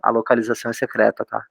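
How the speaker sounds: hushed, conspiratorial aside; leaning in to whisper. Acted. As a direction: drop your voice like sharing a secret. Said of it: "vou falar baixinho". (falando baixinho, em tom de segredo)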